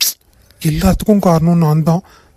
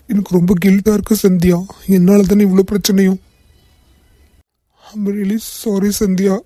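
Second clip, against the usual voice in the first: crying. Acted. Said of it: "எதுக்கு அழுகுறீங்க".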